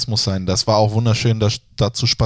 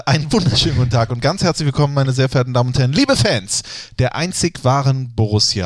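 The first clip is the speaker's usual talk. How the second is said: announcer opener. Acted. Repeated opener.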